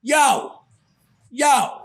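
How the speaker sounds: imitating an obnoxious attention-grabber; loud, obnoxious. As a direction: call out like a pushy loudmouth, mildly. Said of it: "this one loud, obnoxious voice".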